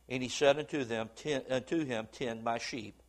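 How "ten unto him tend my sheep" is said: low, soft command; gentle charge. Retold or imitated. Jesus quietly charging Peter, low and soft. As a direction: hand it over quietly like a shepherd.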